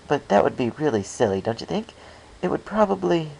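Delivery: high, loud, giddy babble; rambling Pinkie. Acted. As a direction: chatter on about a silly pun.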